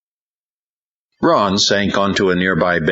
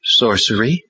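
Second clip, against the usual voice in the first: demon voice; 6 semitones higher than usual. A narrator's reading. Demon voice answers.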